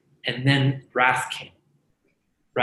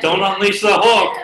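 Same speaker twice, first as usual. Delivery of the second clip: mock warning; 6 semitones higher, 8 dB louder than usual. Jokingly quoting himself.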